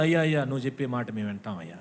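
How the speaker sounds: lightly voiced humbled crew; humbled sailors. Sailors meekly promising Paul to listen, quick and soft. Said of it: "అంటే అప్పుడు".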